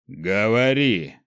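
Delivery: slow, loud, booming single word; thunderous command. Acted. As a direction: order it like a thunderclap. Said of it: "голос в этот момент был подобен раскату грома".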